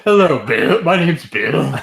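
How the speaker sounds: high, loud mock girly voice; girl voice. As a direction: ham up a girly voice. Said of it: "talking with the girl voice".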